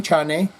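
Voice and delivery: chane as chah-neh, a rising question; Spanish-style Shane. Shown as a demonstration. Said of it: "anytime I'm speaking with a Spanish American".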